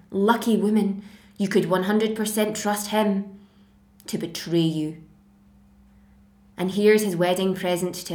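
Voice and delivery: wronged woman's dramatic monologue; bitter, theatrical reproach; betrayed wife, bitter. Acted. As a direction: confront the husband who cast you off, with emphatic pointed questions. Acts Medea's monologue to Jason.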